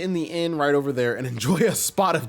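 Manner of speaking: mannered steward voice, drawing out phrase endings; genteel old retainer. Acted. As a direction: excuse yourself politely as a fussy steward. Voices Toadsworth.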